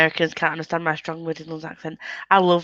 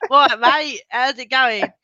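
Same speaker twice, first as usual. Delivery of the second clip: higher, caricatured British greeting; mock British slang accent; 4 semitones higher, slower than usual. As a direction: play the stereotyped British mate. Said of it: "we don't all talk like that".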